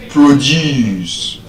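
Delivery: proDUCE, weight on the second syllable; verb stress. Shown as a demonstration. Teacher showing the class the verb, second-syllable stress on "Produce". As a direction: say "Produce" as the verb, long -DUCE. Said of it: "But as a verb".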